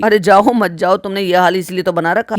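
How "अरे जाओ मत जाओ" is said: usual speaking voice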